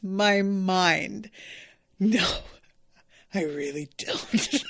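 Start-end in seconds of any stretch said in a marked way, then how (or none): 2.0-4.7 laughing through it. Real, not acted. Fan quotes her favourite dub line, laughing. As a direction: try to quote it but crack up.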